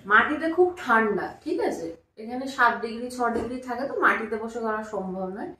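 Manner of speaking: hushed and quiet; whispering on the phone. Real, not acted. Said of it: "কেন এত আস্তে বলছি?".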